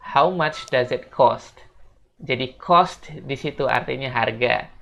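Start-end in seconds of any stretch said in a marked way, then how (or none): 0.0-1.6 very slow, careful English; slow model question. Shown as a demonstration. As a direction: spell it out slowly for learners. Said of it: "Kita bisa bilang".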